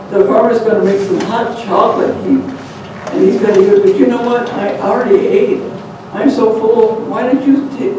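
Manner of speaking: con him into trading places; sly sweet talk. Acted. Rabbit tricking the coyote into the cage, sly coaxing.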